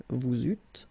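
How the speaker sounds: "vous eûtes" linked with a z; liaison. Shown as a demonstration. Teacher pointing out the link, liaison. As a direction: say "vous eûtes" as vou-zût. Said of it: "and then the link".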